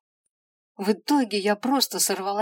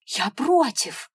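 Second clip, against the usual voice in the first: higher, louder, slow near shout; 4 semitones higher, 7 dB louder, slower than usual. Acted. Girl refusing hell to the imp, near shouting. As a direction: dig in and almost yell it. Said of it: "практически закричала".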